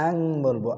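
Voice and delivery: আং with the nun hidden as a nasal ng; nasal ang. Shown as a demonstration. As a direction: say আং, not a clear nun. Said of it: "আন বলবো না". (আং নাকের ভিতরে লুকিয়ে)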